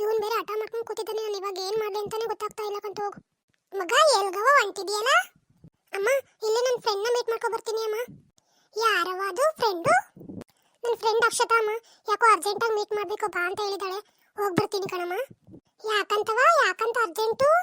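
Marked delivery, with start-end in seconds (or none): 3.8-5.1 a louder, lightly voiced village mother; mother calling out. A lightly voiced mother calls to her son on his way out. 8.8-9.9 slow, louder motherly questioning; suspicious mother. Acted. A lightly voiced mother slowly questions her son about his friend. 15.8-17.5 a light motherly press for answers; prying mother. Acted. A lightly voiced mother presses her son about the urgency.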